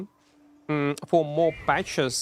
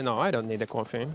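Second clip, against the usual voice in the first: low grumbling answer; 7 semitones lower, 5 dB quieter, faster than usual. Real, not acted. Streamer answering chat about coffee, low and quiet. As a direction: drop low and soft, a grumbled no. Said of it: "You need a coffee?".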